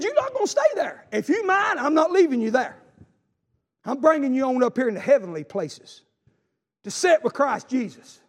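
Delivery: high, loud preached promise; God's promise, preached. Retold or imitated. Preacher voicing God lifting his child, high and loud. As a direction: ring out God's vow. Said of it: "He said".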